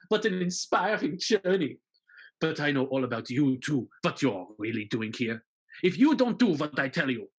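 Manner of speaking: sneering villain, smooth and menacing; scheming villain. Pretend. Von Turpin threatening Marius, in a sneering villain voice. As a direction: gloat over the hero's secret.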